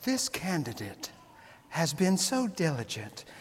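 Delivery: sweet, very hushed ad narrator voice. Mocking political ads, the speaker quotes one in a lovely woman's ad voice. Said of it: "usually it's a lovely woman's voice overshadowing the ad".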